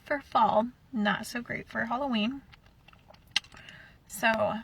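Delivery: talking around a cough drop in mouth. Real, not acted. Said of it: "I have a cough drop in my mouth".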